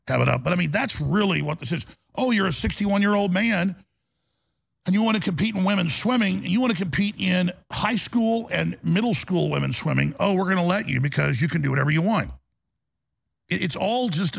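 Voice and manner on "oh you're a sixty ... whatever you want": sarcastic mock permission. Mocking the officials' permissiveness.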